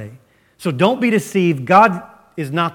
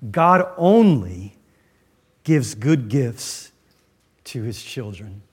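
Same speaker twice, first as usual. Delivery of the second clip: slow, weighty statement, stress on "only"; slow emphatic; 5 semitones lower, slower than usual. Shown as a demonstration. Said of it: "Here's the second truth I want you to see".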